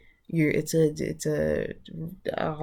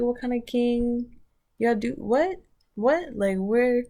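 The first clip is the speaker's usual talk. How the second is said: flustered king; 7 semitones higher, 4 dB louder, slower than usual. Acted.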